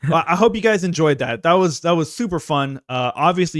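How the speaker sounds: loud and bright, coffee-fueled; amped up on caffeine; too much caffeine. Real, not acted. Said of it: "you can tell in our voices, the, the, the coffee is kicking in".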